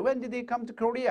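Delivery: slow, careful question; slow demo. Shown as a demonstration. Teacher modelling the question for students, slow. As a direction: lay out each word slowly. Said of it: "의문사가 있으면 뒤를 내려 있습니다".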